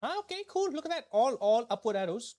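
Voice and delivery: happy to see the ratings rise; cheering at the upward arrows; pleased surprise. Real, not acted. Sees rating go up.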